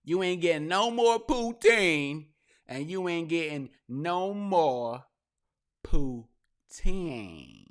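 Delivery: loud, slow mock judge yelling at Tory; mock angry judge. Fed-up judge yelling at Tory in court, loud mock rant. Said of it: "And judge is like".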